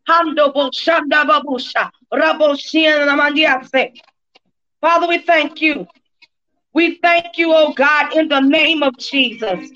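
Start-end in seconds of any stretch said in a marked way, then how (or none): 0.1-3.9 speaking in tongues. Real, not acted.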